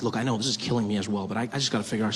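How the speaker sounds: a hint of a low, strained official; lightly voiced stressed official. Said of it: "He's like".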